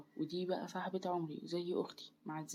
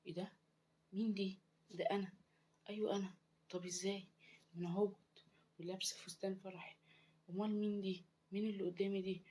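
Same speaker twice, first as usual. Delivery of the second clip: hushed, slightly raised disbelieving voice; shocked; 2 semitones higher, 6 dB quieter than usual. Acted. Dead bride sees her own body on the floor, hushed shock. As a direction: ask it softly in stunned bewilderment. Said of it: "وقلت بصدمة".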